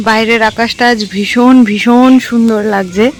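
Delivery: talking with a toothbrush in mouth; while brushing teeth. Real, not acted. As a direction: speak around the toothbrush. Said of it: "আমি brush নিয়ে এসেছি, brush করতে করতে".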